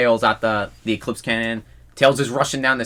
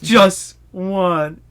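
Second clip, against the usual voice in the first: high, louder cocky quip; smug quip; 7 semitones higher, 5 dB louder than usual. Retold or imitated. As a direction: toss it off with swagger. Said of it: "It was like".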